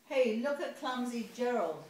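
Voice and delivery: high, loud jeer; mock the clumsy giraffe; sneering. A narrator's reading. Animals sneering at Gerald, loud and high. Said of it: "the animals all sneered".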